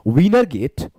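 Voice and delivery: बहुत धीरे, हर शब्द अलग-अलग; पढ़कर लिखवाने जैसा धीमा उच्चारण; slow dictation. Shown as a demonstration. Reads the question statement aloud. (शब्द-शब्द धीमे पढ़ो)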